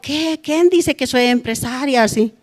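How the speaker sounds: pregunta indignada, aguda y subida de tono; queja indignada. Retold or imitated. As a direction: reclamando ofendida, como si la acusaran. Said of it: "Yo me renegaba harto". (queja enojada, alzando la voz)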